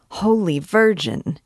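a stunned poet exclaims at the goat; startled exclamation. Acted. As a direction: blurt it out in shock. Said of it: "he exclaimed at last".

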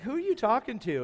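incredulous question. Retold or imitated. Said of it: "I was like".

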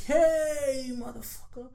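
high, calling out across the yard; mock yell a greeting from far away; retold shout. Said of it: "On the top of his voice".

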